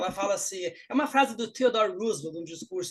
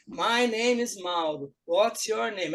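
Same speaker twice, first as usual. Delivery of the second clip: slow, stilted textbook reading; students reading aloud; much slower than usual. Retold or imitated. Pupils read the book dialogue in class, stilted reading. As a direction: recite it word by word like a beginner. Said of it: "os alunos pegam o livro e lêem".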